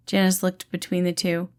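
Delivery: usual speaking voice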